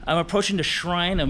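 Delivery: winded, catching breath between words. Real, not acted. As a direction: talk while still panting from the climb. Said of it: "Sorry I'm out of breath".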